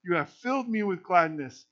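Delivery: proclaiming the passage, measured and firm; scripture reading. Acted. Pastor reading Peter's sermon aloud to the congregation, proclaiming. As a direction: read it like Peter addressing the crowd.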